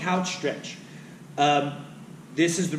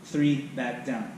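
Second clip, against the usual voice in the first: slow tempo count; slower than usual. Shown as a demonstration. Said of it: "count three seconds up".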